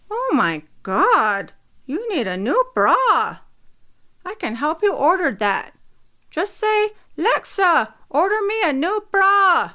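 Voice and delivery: teasing mother. A narrator's reading. Mother on the Alexa teasing her daughter about her bra. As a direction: tease her daughter fondly.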